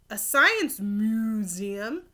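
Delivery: slow, drawn-out moan of disappointment. Acted. Cow moaning at the science museum, slow mock dismay. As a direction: let the words sag, slow and dismayed. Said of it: "Martha moaned".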